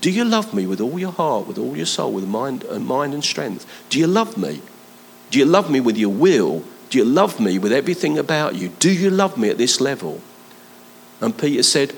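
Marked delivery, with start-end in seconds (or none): 0.0-10.2 intentional. Shown as a demonstration. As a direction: press each question with purpose, leaning on love. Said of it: "it's actually an intentional now".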